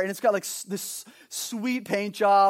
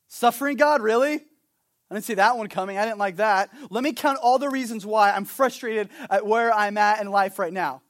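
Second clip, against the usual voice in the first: louder, whiny grumbling at God; mock complaint; 4 dB louder than usual. Believer complaining to God about suffering, mock grumbling. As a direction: sulk about unexpected suffering.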